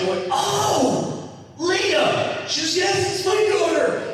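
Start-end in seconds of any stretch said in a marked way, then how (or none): 0.3-2.4 very high, imitated emotional cry; hammed-up high-pitched realization; high wailing reply. Acted answer to sobbing mother. 2.8-4.0 very high mock tearful wail; hammed-up high sobbing voice; imitated sobbing. Sobbing mother's quote continues.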